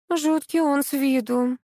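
whiny, drawn-out protest from a spoiled wife; capricious whine. Acted. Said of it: "закапризничала тётка".

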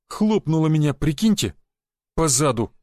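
plain reading voice

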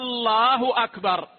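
الله with a long drawn opening vowel; faulty call. Shown as a demonstration. Teacher showing the muezzin's mistake, stretched الله. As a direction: demonstrate the lengthened hamza of الله. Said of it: "هذا لحن يغير المعنى".

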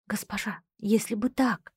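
unvoiced, leaning in whisper. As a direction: whisper it close to her ear. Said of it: "наклонилась ко мне и прошептала". (шёпотом)

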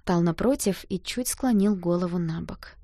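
ordinary delivery

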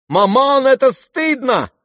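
high, loud, shocked reproach; loud cry. A narrator's reading. Daughter cries out at her mother, shocked reproach. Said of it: "громко вскричала Аглая".

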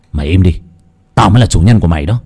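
heated quarrel with his inner demon; furious retort. Acted. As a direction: silence the voice in your head. Arguing with his shadow.

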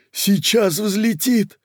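very high, loud, drawn cry; alarmed shout. Acted. Кока as the table rises, high alarmed cry. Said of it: "закричала Кока".

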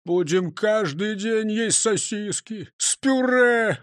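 dreamy. A narrator's reading. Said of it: "размечтался Крендель".

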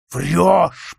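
loud roared accusation; deafening roar. Acted. Count roars at his son, loud accusing shout. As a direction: roar it right in his face. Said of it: "прорычал он оглушительно".

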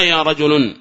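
"رجل" ending in -un; wrong tanween. Shown as a demonstration. Teacher repeats the bad example, "رجل" said rajulun. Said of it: "لا يصلح هذا".

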